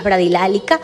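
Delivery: slowed, dragged delivery; lightly slowed bradylalia demo; slow speech demo. Shown as a demonstration. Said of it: "habla muy lenta".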